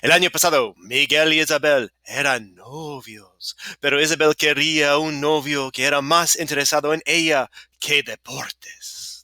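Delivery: a touch of excitement in the Spanish; getting excited. Real, not acted. Teacher reading a story to students, getting a little excited. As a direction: read the story with mild, rising enthusiasm. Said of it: "'cause I'm getting excited now".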